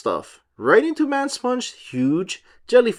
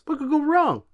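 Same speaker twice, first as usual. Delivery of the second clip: SpongeBob voice; 11 semitones higher than usual. Acted. SpongeBob voiced, high far.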